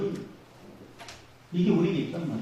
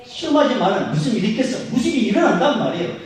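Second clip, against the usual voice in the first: rising, louder pulpit warning; fervent preaching; 7 semitones higher, 6 dB louder than usual. Real, not acted. Preacher warning the congregation, fervent and building. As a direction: drive the warning home from the pulpit.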